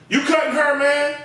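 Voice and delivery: mock alarmed call. Barbers warn the dozing barber, alarmed call. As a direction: warn him he's working. Telling Marvin he's cutting.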